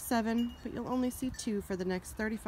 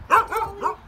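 sitting duck praised in a cooing voice; praising pet talk; 11 semitones higher, 7 dB louder, much slower than usual. Real, not acted.

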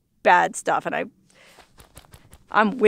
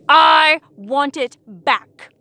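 very slow drawn-out pout; mock whine; 3 semitones higher, 4 dB louder, much slower than usual. Wants her sunshine back, a slow mock whine. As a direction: drag it like a sulky kid. Mock-whiny demand again.

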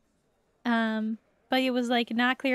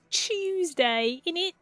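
put-on Cockney, Tuesday as Chewsday; mock Cockney; 5 semitones higher, slower than usual. Shown as a demonstration. Streamer showing how to say Tuesday, mock Cockney. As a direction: say it like an amateur Cockney. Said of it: "it's probably not a real Cockney".

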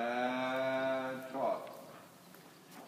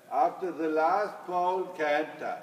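projected across the arena, louder; calling out; 3 semitones higher, 6 dB louder than usual. Real, not acted. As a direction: call it out to the rider.

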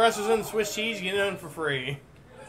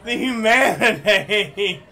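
mock lament; 5 dB louder, slower than usual.

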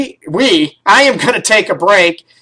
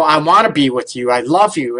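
heartfelt plea; 4 semitones lower than usual. Retold or imitated. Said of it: "heartfelt and tears in your eyes".

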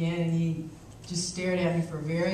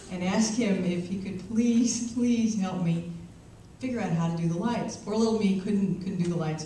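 Southern Belle attitude. Retold or imitated. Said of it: "I put on my best Southern Belle attitude".

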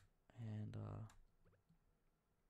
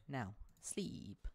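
whisper; 3 semitones higher, much slower than usual. Real, not acted. Player sending character to bed, whispered. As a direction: hush it like lulling someone.

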